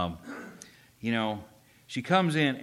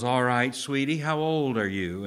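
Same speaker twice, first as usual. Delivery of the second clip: louder, raised-pitch mock condescension; patronizing; 3 semitones higher, 6 dB louder than usual. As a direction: imitate a condescending talent judge. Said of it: "he's very patronizing in his interview".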